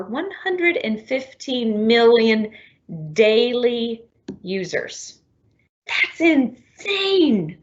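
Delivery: amazed. Real, not acted. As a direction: stretch it out in disbelief. Repeats the figure in amazement.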